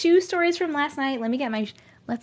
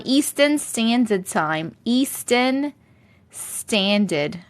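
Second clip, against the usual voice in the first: drawn out, each word spelled out; slow, emphatic; much slower than usual. Real, not acted. Streamer telling chat the time zone, slow and emphatic. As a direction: stretch the words slowly.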